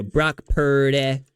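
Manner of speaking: Brock Purdy with a drawn-out PUR; mock-deliberate Purdy; Cam Newton. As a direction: imitate a slow, stretched Purdy. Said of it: "he goes".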